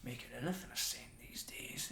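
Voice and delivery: a scornful stage whisper. Acted. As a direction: mutter it so all can hear. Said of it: "whispers it loud enough that you can definitely hear".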